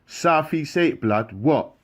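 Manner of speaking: loud, high call out the window; shouting back. Acted. Carlon yelling back at the unseen voice, loud shout. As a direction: yell your answer across the wing.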